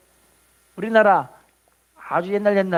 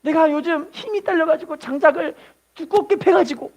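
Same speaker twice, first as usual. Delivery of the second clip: put-on old man taking blame; 7 semitones higher than usual. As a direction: exclaim it's his own fault. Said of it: "이야기를 하는 거예요".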